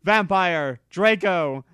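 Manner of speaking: loud, high shocked call; shocked outcry. Acted. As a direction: yell it at the fighting boys. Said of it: "I asked".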